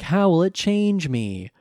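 lightly voiced child, reading flatly; bored kid reading script. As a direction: read it like a disinterested kid actor. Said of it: "sounds like a kid reading off a script".

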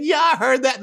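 high amused reply; Jesus agreeing. Retold or imitated. Jesus answering the Father, high and amused.

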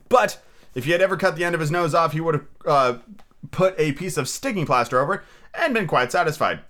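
animated storybook reading, lifted above chat; story narration. Acted. Reader tells of Scrooge's shaky morning shave, animated narration. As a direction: read it out with lively storyteller phrasing.

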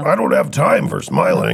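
stiff, solemn anime villain. Pretend. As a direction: declare it like an anime bad guy. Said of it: "now you sound like a cartoon villain from anime".

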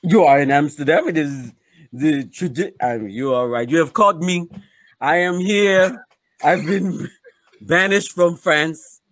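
put-on light French accent, slowed on the confession. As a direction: play a banished French comic, lightly accented. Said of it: "what accent is that?".

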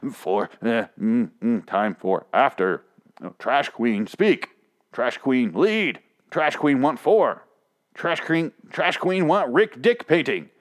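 lightly caricatured trash queen, chopped phrases; mock monosyllabic speech. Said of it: "just monosyllabically".

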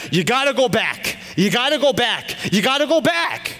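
high, loud, insistent mock yelling; imitating dad. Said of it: "I just hear my dad".

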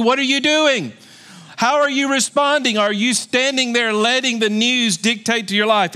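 challenging divine question; God asking. Acted. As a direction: press the question as God would. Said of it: "He's asking you".

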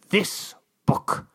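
hushed, breathless "This book"; whispered reveal. Acted. Ambassador unveils the book in a hushed whisper. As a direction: let it drop to a secret whisper.

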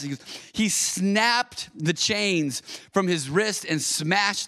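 slow, emphatic Bible reading; dramatic scripture reading. Acted. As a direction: read the passage aloud with weight, drawing out key words. Reads Bible passage aloud.

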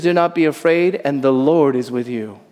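tender reassurance; gentle comfort. Shown as a demonstration. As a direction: say it as comfort, not an order. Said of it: "the angel never says it as a command".

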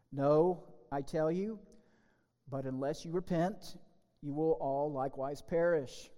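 measured, solemn Bible reading; solemn lectern reading of the gospel; scripture reading. Acted. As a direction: read the gospel to the congregation. Reads scripture aloud in service.

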